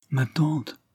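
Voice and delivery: a touch of eager impatience; impatient exclamation. A narrator's reading. Niece breaking the silence to her aunt, impatient exclamation. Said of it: "s'écriait-elle".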